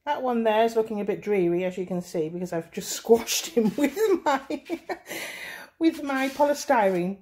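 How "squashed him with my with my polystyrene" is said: high, helpless real giggle through the words; laughing. Real, not acted. Tutor admitting she squashed her bow, laughing. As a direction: crack up while explaining the mishap.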